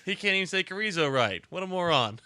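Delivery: loud laughing tease; laughing mock insult. Real, not acted. Host teasing his co-host's pronunciation, laughing loudly. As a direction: laugh while calling him names.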